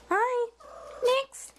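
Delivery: high-pitched greeting to a pet; pet-talk greeting. Real, not acted.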